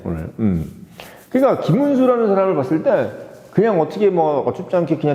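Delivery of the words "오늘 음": ordinary talk, nothing marked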